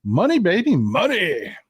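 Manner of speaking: lightly hammed-up "money, baby" glee; greedy gleeful crew. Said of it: "his crew that were like".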